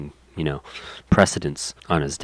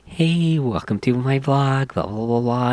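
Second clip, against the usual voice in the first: bubbly vlogger; 5 semitones higher than usual. Retold or imitated. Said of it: "She's like".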